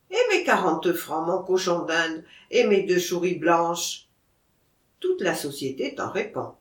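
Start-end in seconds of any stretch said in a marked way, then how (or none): 0.1-4.1 Auvergnat seller claiming his due; lightly voiced Auvergnat, "souris" as "chouris"; Auvergnat accent. Seller asks for his payment, Auvergnat accent.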